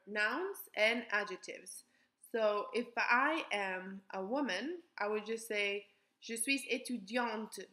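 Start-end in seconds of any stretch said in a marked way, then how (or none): 6.2-7.7 Je suis étudiante with the T sounded, étudiante; pronounce the final T. Shown as a demonstration. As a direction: say "étudiante" ending clearly on the T. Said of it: "I put the E right there".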